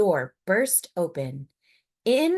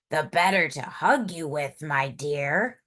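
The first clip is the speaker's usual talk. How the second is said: wolf's growl; 3 semitones lower than usual. Acted. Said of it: "growled the wolf".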